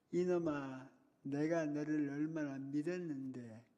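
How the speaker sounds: slow, pleading reproach with each word weighed; teacher's lament. Retold or imitated. Crying teacher repeats his hurt to the boy, slow and pleading. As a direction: lean on 내가, slow and aching. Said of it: "울면서".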